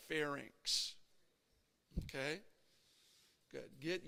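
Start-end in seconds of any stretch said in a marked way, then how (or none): 0.1-0.9 slow model. Shown as a demonstration. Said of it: "Everybody say it once for me".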